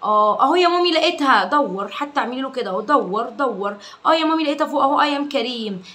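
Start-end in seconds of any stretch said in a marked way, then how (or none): 0.0-1.4 put-on child's happy voice. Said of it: "child voiced finding answer". 4.1-5.0 put-on child's happy voice. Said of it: "child voiced again".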